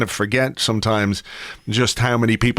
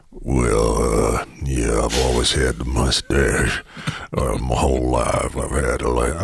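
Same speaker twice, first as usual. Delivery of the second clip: much lower, deep rumbling drawl; Sam Elliott impression; 11 semitones lower, slower than usual. Host imitating the actor on a hangover walk, deep rumble. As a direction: rumble it low like a cowboy actor. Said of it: "apologies for my terrible accent".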